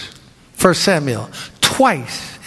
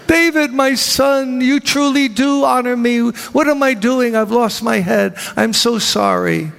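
mock remorse; 5 semitones higher than usual. Saul's fake remorse.

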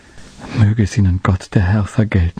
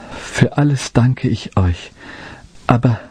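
higher, slow, voice catching with weakness; breaking voice; 4 semitones higher than usual. Acted. Dying shepherd boy thanking the women, voice breaking. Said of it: "sagte er mit brechender Stimme".

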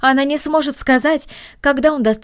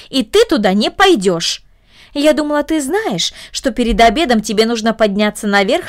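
stern aunt; 2 semitones higher than usual. Acted. Aunt scolds Cornelie.

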